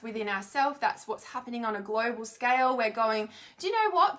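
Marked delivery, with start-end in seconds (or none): 3.6-4.2 higher and louder, fed-up challenge; like finally standing up and saying enough; higher, louder mock-indignant outburst; defiant declaration. Collective voice refusing abuse.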